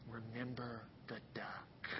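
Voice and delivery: soft, slow, sly whisper; whispered threat. Acted. Sister to brother at grandmother's, sly whisper. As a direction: hiss it low into his ear as a warning. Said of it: "whispered in the ear of Johnny".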